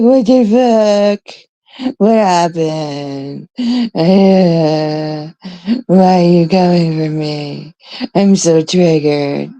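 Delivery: slow, drawn-out mock bewilderment; mock melodramatic disbelief, slowed way down; hammed-up outrage. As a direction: overplay being offended. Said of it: "I'm just like".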